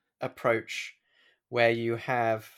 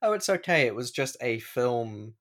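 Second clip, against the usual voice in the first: mock reassurance. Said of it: "in quotation marks".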